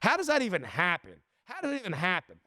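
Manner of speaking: livid. Real, not acted. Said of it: "I am livid".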